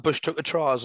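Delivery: lightly put-on Geordie; a touch of Ant and Dec's Geordie; Geordie accent. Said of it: "Why did you go all Geordie".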